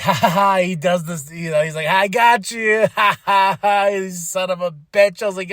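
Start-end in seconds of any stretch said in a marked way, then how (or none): 0.1-0.6 mock villain laugh; mimicked gloating laugh. 1.9-3.9 mock wrestling heel gloating; drawn-out taunt with a mock laugh; mimicked taunt. Imitates Gunther taunting crowd.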